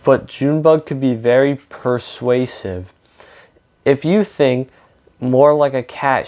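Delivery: reading a picture book aloud to children, with lightly voiced characters; story narration. A narrator's reading. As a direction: tell the story to a young audience.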